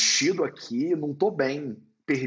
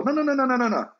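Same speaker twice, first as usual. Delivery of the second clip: high, louder firm no, no, no; emphatic retold refusal; 9 semitones higher, 5 dB louder, much faster than usual. Teacher refusing the student's dictionary, emphatic no. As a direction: cut him off with a string of insistent noes.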